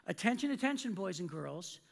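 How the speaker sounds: deliberate mock PA announcement, pausing before the punchline; very clear announcement. Employee defies hovering manager over the microphone, very clear announcement. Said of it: "very clearly, I said".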